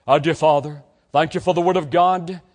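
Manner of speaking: earnest prayer voice; closing prayer. Acted. Preacher praying over graduating students, earnest. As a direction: lift the young people up to God.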